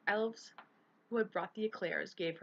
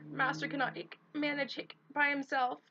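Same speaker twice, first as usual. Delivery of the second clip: much higher, louder, hiccuping elf voice; a tipsy squeaky elf pleading; high drunk elf; 8 semitones higher, 5 dB louder than usual. A narrator's reading.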